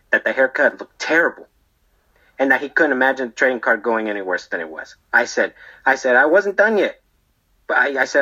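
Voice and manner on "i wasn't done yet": high-pitched protest, rising then dropping; acted protest. Barber answering his screaming customer, high-pitched protest. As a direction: protest your innocence in a higher voice.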